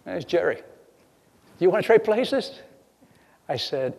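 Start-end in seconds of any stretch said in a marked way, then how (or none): 0.0-2.6 mock stranger voice. Man on the seawall offering to trade places, lightly mocked. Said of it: "He goes".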